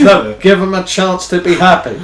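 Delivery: laughing through the quote. Retold or imitated. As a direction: repeat it while laughing. Laughing while repeating Maria.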